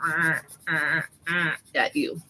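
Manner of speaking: low, droning buzzer noise; imitated alarm buzz. Mom imitates the alarm that could wake her kid, low buzz.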